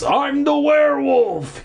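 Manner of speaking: high, drawn-out manic shriek; crazed shriek. Acted. Hermit chasing the kids, high manic shriek. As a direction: shriek it like a madman. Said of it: "he shrieked".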